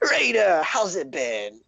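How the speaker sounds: very high, eager gnome voice; excitable gnome. Acted. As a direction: squeak out a giddy little gnome welcome. Gnome greets the drow.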